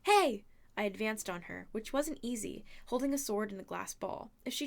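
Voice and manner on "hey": high, very loud shout; sudden yell. A narrator's reading. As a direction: yell to draw the monster off. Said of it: "when I yelled".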